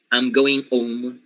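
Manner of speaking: "home" said as "ome", no H sound; dropped H. Shown as a demonstration. Teacher showing students how they say it, dropped H. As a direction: leave the H off "home". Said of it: "they would say something like".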